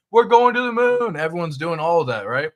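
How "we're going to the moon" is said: mock crowd shout. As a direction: shout it high and loud like a hyped crowd. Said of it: "Everyone's shouting from the roof".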